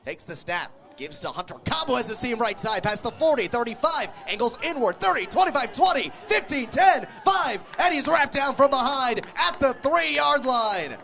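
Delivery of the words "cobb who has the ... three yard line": rising, louder and higher as the run breaks long; excited call. Real, not acted. Announcer calling a long run to the crowd, building excitement. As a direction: build the call with every yard marker.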